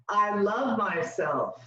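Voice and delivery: slow, drawn-out affirmation; repeat-after-me. Shown as a demonstration. Leader giving the group a line to repeat, slow affirmation. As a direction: spell it out slowly for the group to copy. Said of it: "repeat after me and say".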